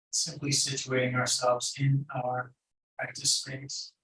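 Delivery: calm meditation guide with long pauses; unhurried, even meditation instruction; guided meditation. Acted. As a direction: guide them gently inward, leaving long silences.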